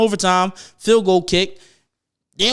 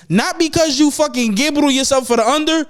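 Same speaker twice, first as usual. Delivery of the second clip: worked-up rant; 8 semitones higher than usual. Real, not acted. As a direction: build the outrage until it nearly squeaks. Escalating mock-outraged rant about betting.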